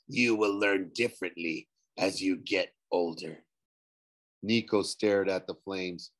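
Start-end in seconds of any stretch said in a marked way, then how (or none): 0.1-3.4 ghost. A narrator's reading. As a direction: draw it out like a shade bargaining.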